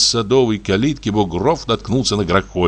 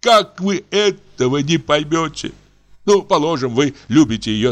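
dying man's tone; 6 semitones higher than usual. A narrator's reading. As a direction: beg as if dying. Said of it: "тоном умирающего". (тоном умирающего, умоляя)

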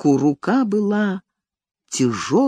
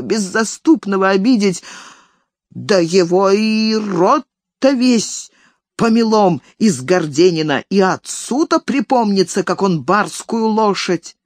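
put-on threatening old nanny; 3 semitones higher than usual. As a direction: grumble threats like an angry nanny.

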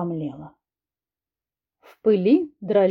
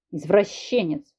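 growl; 3 semitones lower, slower than usual. Acted. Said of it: "прорычал Алексей".

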